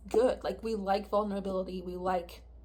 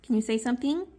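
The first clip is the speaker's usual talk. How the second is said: raised calling voice; calling the cat; 3 semitones higher, 5 dB louder than usual. Real, not acted. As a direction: call out loud to the pet.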